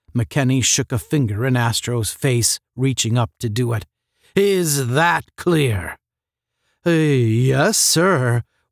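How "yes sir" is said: embarrassed, sheepish tone. Astro answers McKenny, who has just shaken a finger at him, embarrassed. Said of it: "was the embarrassed reply".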